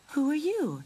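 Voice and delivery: high, haughty question; disdainful, pitched high; snooty. A narrator's reading. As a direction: ask as if looking down your nose. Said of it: "she asked and turned up her nose".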